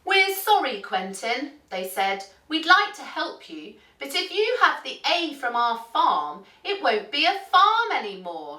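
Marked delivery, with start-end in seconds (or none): 0.0-1.6 high, sing-song character voice; apologetic farm animals. A narrator's reading. Farm animals turning down the duck, high apologetic voice. 2.5-8.6 raised storybook character voice; apologetic farm animals. A narrator's reading. Farm animals refusing the duck their letter, high apologetic voice.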